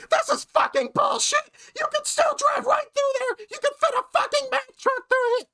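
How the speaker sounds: high shrill mock screech, shouted; screeching Karen. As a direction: screech it like an enraged customer. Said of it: "she just flips out".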